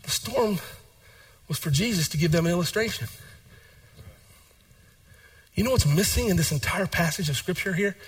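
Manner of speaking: hushed, deliberate explanation; quiet aside. Acted. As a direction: draw them in quietly.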